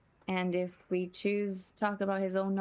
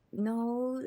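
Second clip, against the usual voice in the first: ordinary talk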